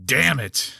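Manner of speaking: mild mock yell, quoting a hurt wrestler; mock scream. Host quotes a wrestler with a hurt knee, mild mock scream. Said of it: "Sid was selling a hurt knee and screaming".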